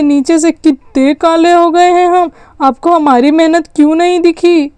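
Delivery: acted childish grievance; indignant child. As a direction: plead your case like a slighted kid. Child protests being denied credit.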